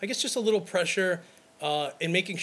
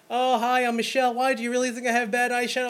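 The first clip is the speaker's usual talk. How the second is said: imitating a bridesmaid; 7 semitones higher, faster than usual. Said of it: "bridesmaid answers back".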